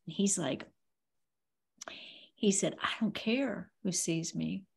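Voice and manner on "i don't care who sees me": whispered defiant line; retold whisper. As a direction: hush it like a secret vow. David retold, defiant quote.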